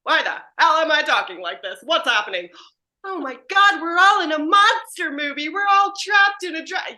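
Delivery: loud, rising melodramatic alarm; hammed-up vintage monster-film hysteria; old-movie panic. Carlos realizing they're trapped in a monster movie, hammy panic. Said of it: "Carlos would be the one to be like".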